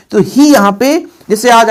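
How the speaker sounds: ordinary talk, nothing marked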